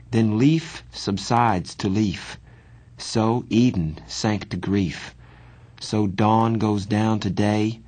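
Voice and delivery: slow, measured verse with pauses between lines; poem recitation. Acted. Boy recalling a poem for his friend, slow recitation. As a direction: recite it slowly, line by line.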